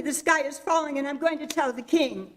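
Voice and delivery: a hen spreading the alarm; Henny Penny. Acted. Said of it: "said Henny Penny".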